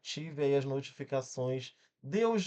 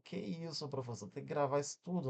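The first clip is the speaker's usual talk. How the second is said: softer, lightly voiced student questioning the teacher; student's protest; 6 dB quieter than usual. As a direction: interject quietly as a dismayed pupil. (protesto de aluno, mais baixinho)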